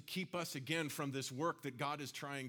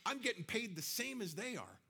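high, indignant worker's whine; mock grumbling of an offended worker; whiny complaining; 7 semitones higher than usual. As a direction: protest like a sulking laborer. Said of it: "they start complaining".

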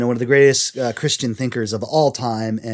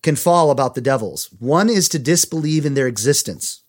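measured, emphatic read-aloud; reading a quote aloud; 3 semitones higher than usual. A narrator's reading. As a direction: read it out clearly to listeners. Reads a book quote.

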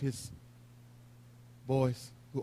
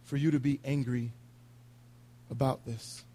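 gentle teacher; 3 dB quieter than usual. Retold or imitated. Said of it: "as a gentle teacher".

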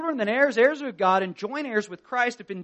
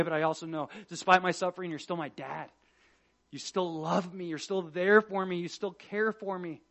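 quiet trust; 3 semitones lower, 6 dB quieter than usual. Retold or imitated. Jesus's quiet trust in the Father.

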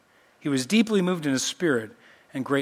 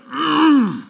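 high, louder disapproving hum; a grunt of sudden anger; displeased grunt; 7 semitones higher, 5 dB louder than usual. Retold or imitated. Preacher voicing Jesus getting mad, with a cross grunt. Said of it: "he's like".

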